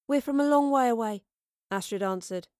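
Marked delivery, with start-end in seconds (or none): 0.1-1.2 higher, guarded answer; defensive. A narrator's reading. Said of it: "Her defensive instinct was showing".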